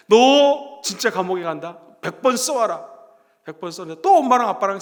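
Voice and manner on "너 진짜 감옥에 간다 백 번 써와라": acted threat, slow and emphatic start; mildly acted scolding, words drawn out; angry teacher. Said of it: "선생님 화가 났어요". (화난 선생님이 느리게 으름장 놓는 흉내)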